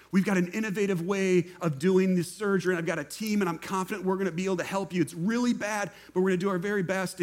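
lightly voiced, brisk self-assured doctor; a touch of Maverick swagger, fast and sure; confident surgeon. Young surgeon reassuring the patient, brisk and confident. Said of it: "Maverick, the fighter pilot".

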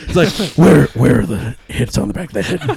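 put-on old lady hissing threats like Batman; Christian Bale Batman. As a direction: growl it like Batman. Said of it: "Is that what she sounded like? ... Christian Bale Batman situation".

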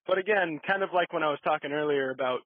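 holding back a burp mid-sentence; words squeezed past a burp; talking while burping. Real, not acted. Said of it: "oh, pardon my burp".

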